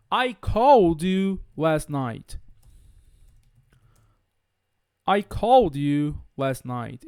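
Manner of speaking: slow model sentence, CALLED ending in D. Shown as a demonstration. Teacher giving an example sentence, slow, CALLED with a D. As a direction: link the D of CALLED into the next word, slowly. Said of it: "pronunciar esse E D com som".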